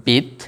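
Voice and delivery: বিত cut short, ending stopped on the t; closed syllable demo. Shown as a demonstration. Teacher shows viewers a closed syllable, বিত stopped short. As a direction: clip বিত so the mouth closes at the end. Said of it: "বিত যেহেতু আটকে যাচ্ছে".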